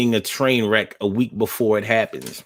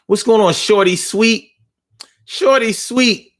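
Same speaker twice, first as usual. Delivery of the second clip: excited greeting; 9 semitones higher, 5 dB louder than usual. Real, not acted. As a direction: call out their name brightly. Greeting viewer by name.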